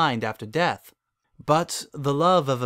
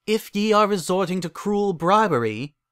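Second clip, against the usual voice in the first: scolding; 7 semitones higher than usual. A narrator's reading. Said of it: "scolded the goddess of love".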